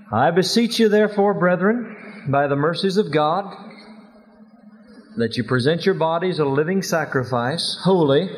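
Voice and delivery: scripture recited in a lilting preacher's cadence; broad singsong kids theatre. Shown as a demonstration. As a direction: recite it from memory, rising on each phrase. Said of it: "Can we say them without even looking at them?".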